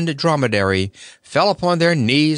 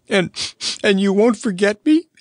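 sniffling plea; 11 semitones higher than usual. A narrator's reading. Happy Toko asking the Scarecrow not to forget him, sniffling. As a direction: ask through sniffles. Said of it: "sniffed Happy".

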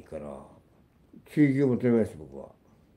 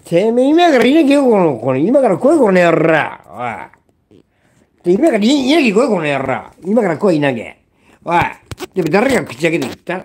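real screaming, far higher and louder; screaming rage; 7 semitones higher, 12 dB louder than usual. Real, not acted. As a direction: scream a challenge in genuine fury. Screaming challenge at betrayers. (本気でブチ切れて叫ぶ)

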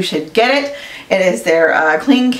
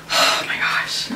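whispered, slow and soft; hushed amazement; awed whisper; 6 dB quieter than usual. Real, not acted. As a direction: breathe it in awe. Opening fancy box.

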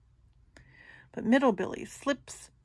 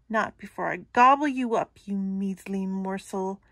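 booming troll; 3 dB louder than usual. Acted. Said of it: "Troll booms from below".

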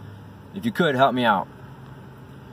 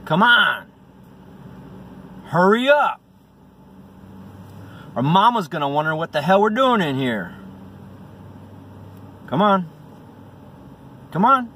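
urgent coaxing; 6 semitones higher than usual. Acted. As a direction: hurry a reluctant cat along. Coaxing the cat urgently, acted.

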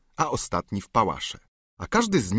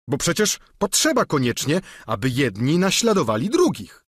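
lightly voiced simple squire, chatty and proud; Sancho voiced; 5 semitones higher, 5 dB louder than usual. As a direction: Sancho telling his tale, a bit higher. Sancho tells of grandees.

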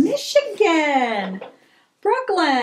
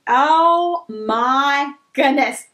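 slow, drawn-out awe; slow tender delight; touched; much slower than usual. Real, not acted. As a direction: linger on it, moved by the gift. Touched by a gift.

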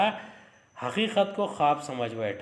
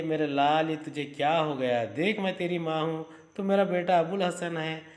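loving mother; 4 semitones higher than usual. Acted. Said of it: "और बहुत प्यार से कहती है".

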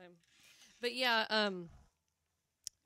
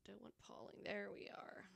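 whispering; 21 dB quieter than usual. Real, not acted. Fiddling with camera setup.

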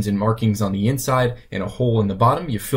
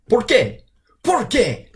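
exasperated lament; 12 semitones higher, slower than usual. Acted.

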